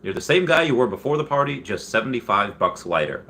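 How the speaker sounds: high, fast stand-up delivery; lightly voiced Seinfeld routine; Seinfeld bit. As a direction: riff it like Jerry doing stand-up. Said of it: "And he says".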